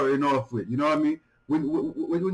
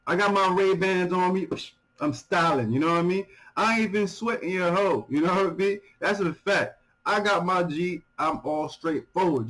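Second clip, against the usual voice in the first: paraphrasing the rapper; 3 semitones higher than usual. Retold or imitated. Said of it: "So he's saying like this".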